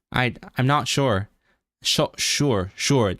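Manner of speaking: "sure" with an American R sounded at the end. Shown as a demonstration. Trying out American for chat, "sure" with a pronounced R. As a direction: say "sure" the American way, R fully voiced. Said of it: "Americans say".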